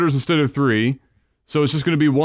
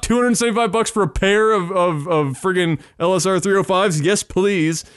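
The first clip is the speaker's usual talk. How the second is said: excited; 4 semitones higher than usual. Real, not acted. Excited about cheap monitors.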